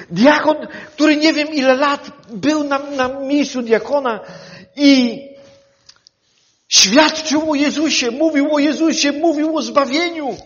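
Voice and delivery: fervent sermon storytelling; preaching at full force. Acted. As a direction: build Stephen's witness with fervour.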